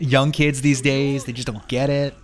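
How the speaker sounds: put-on slow grumbling old man. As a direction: grumble like a cranky old-timer. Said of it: "You sound like an old man".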